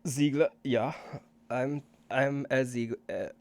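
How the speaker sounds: put-on a light German accent on the doctor's name; stumbling German doctor, lightly accented; German linguist voice. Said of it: "my own accent from Matthew".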